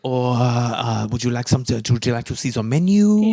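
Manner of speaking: put-on French accent; French barmaid accent. Waitress offering drink or menu, French accent. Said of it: "my French barmaid accent".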